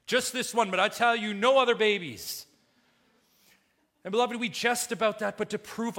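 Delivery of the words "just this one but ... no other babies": stern dad. Acted. Pharaoh voiced as stern dad.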